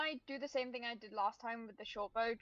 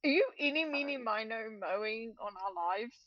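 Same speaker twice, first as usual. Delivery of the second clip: Bill Cipher impression; 5 dB louder than usual. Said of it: "They're doing the Bill Cipher thing".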